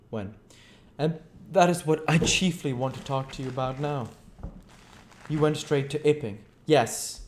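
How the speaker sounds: a bitter, driven scientist telling his tale; lightly voiced, brooding fugitive; a hint of restless menace; Invisible Man. Invisible Man recounts his plan.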